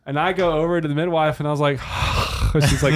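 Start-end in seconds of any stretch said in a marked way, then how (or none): 1.8-2.6 long voiceless exhale, retold; acted big sigh. Father reaching the midwife after the birth, acted heavy sigh. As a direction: let out an acted sigh of relief.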